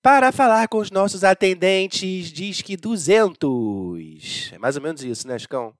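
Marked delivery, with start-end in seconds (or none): 0.0-4.5 slow automated phone menu; drawn-out phone menu prompts; customer service voice. Pretend. Parody phone menu continues.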